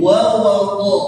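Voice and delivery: careful Quran recitation syllables; teacher's demo. Shown as a demonstration. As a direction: sound the do in "do" clearly. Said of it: "bukan do".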